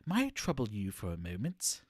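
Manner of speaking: mock-polite British enquiry; lightly put-on British accent, politely formal. Streamer showing how the actress would greet a sir, British accent. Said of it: "busts out the British accent".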